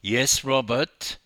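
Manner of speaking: loud, exasperated snap; snapped. A narrator's reading. Wife to her doubting husband, snapping. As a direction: snap it slowly and firmly at him. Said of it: "she snapped".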